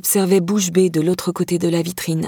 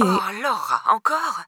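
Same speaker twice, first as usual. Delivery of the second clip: mild maternal reproach; 3 semitones higher, 3 dB quieter, slower than usual. A narrator's reading. Mother hearing of her daughter's new trouble, softly reproachful.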